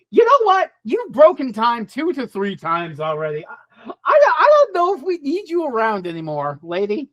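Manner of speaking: lightly voiced creepy alien; a hint of an eerie monster deciding. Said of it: "the creepy Edward Munch boys finally going".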